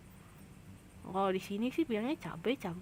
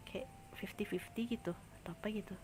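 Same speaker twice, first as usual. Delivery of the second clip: whispered under the breath, to herself; 12 dB quieter than usual. Real, not acted. Streamer whispering to herself while trying to remember a word. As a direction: whisper it while searching memory.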